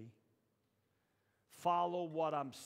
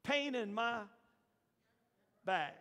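higher, louder, slow weary plea; Moses complaining to God; 12 semitones higher, 11 dB louder, slower than usual. Acted. Moses pleading with God, higher and louder. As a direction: beg the Lord, fed up. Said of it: "he said".

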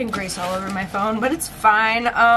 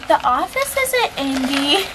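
mock commenter, higher and drawn out; stretched-out, raised-pitch mocking quote; imitating commenters; 4 semitones higher, slower than usual. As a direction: slowly parrot an online nitpicker. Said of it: "comments going".

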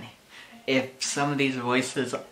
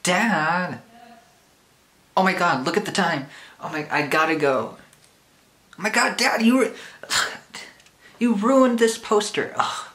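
put-on higher, louder whiny teen son; frantic cartoon teenager, much higher and louder; Max impression; 10 semitones higher, 7 dB louder than usual. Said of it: "Hey, Max".

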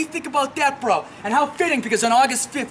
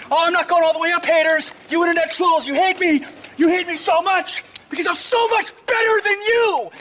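shouting; 5 semitones higher than usual. Real, not acted. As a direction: bellow it at the haters. Yelling at internet trolls.

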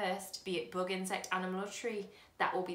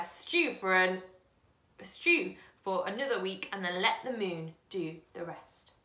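put-on a loud, relentless old man's list of ingredients; old man reciting a magic recipe, loud and wild; loud wild recital; 9 dB louder than usual. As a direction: proclaim it like a mad spell. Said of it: "he cried".

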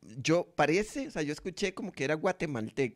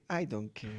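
low, softer mock resignation; imitando indiferencia final; 5 semitones lower, 5 dB quieter than usual. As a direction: drop the pitch and volume as if done arguing. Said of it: "el mae al final como que dice". (indiferencia imitada, en voz baja)

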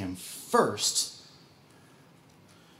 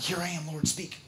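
quiet prayer; 8 dB quieter than usual. Retold or imitated. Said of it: "I'm like".

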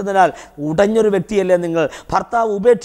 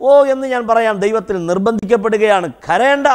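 forceful preaching; 3 semitones higher than usual. Real, not acted. Preacher compelled by God to say "do not cry", forceful cry. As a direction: drive the command home at full force. Urgent command in God's name.

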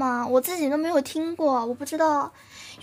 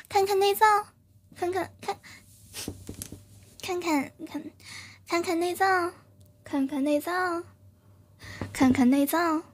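attempted mature lady voice; 4 dB quieter than usual. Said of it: "这样是御姐音吗".

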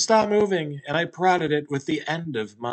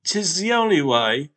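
grave talking Hot Pocket; 5 semitones higher, 4 dB louder than usual. Acted. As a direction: proclaim it like an ancient oracle.

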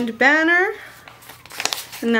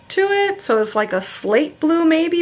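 wondering; 6 semitones higher than usual. Real, not acted. Musing over shade of blue.

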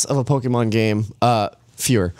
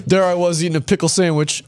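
mock nerdy voice; 5 semitones higher than usual. Mocking voice of colleague.

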